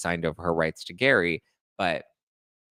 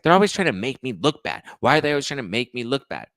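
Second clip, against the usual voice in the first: higher, slightly louder whiny imitation; mock aggrieved complaint; 4 semitones higher, 4 dB louder than usual. Mother complaining she's made to look bad, mock grievance. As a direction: play the victim, lightly hammed up.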